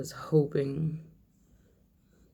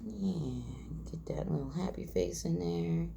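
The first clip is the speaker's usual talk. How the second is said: whispered under the breath; whispering; 7 dB quieter than usual. Real, not acted. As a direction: breathe the words. Whispering while carving detail.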